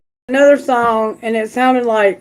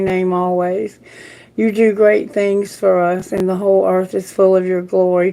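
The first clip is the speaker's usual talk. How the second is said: prayer; 3 semitones lower than usual. Acted. Reads the prayer again.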